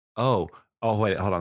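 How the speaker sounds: ordinary delivery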